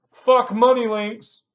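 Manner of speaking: troll's comment yelled, slow and loud; mock yell. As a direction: bellow it like an angry troll.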